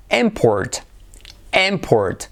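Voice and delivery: IMport, falling after IM; stress on first syllable. Shown as a demonstration. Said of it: "Como nombre". (import con acento en la primera sílaba)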